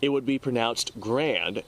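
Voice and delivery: grand said as one syllable, Army style; Army pronunciation. Shown as a demonstration. Demonstrating the Army way, grand as one syllable. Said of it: "that is the Army pronunciation".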